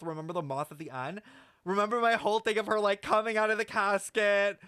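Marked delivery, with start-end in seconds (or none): 1.6-4.6 mock villain boast. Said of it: "being like".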